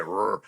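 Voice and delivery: short rolling growl of a cranking engine; one crank of the key; engine crank noise. Shown as a demonstration. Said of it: "Every sip is like".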